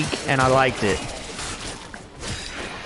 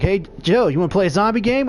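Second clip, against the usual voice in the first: higher, chirpy mock invitation; eager pestering friend; 4 semitones higher, faster than usual. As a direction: bug your buddy over and over, higher. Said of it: "and he's like".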